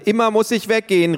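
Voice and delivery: put-on high, loud child protest; whiny child's call. A narrator's reading. Tiffany protests to her parents, high and loud. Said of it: "rief Tiffany".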